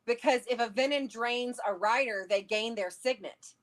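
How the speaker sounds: normal talking voice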